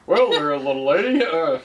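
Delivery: southern twang. Pretend. Southern charmer to a little lady, lightly voiced. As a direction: sweet-talk the little lady in Southern style.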